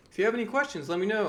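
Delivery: bright, high-pitched presenter imitation; chirpy host voice. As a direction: mimic an overly polite webinar host. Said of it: "Everyone's like".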